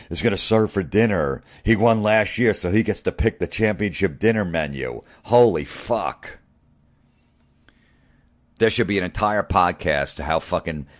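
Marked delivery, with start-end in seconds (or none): 0.1-5.0 mock gushing fan. Mocking golf tradition fans. 5.2-6.4 exasperated. Real, not acted. Disgust at golf traditions.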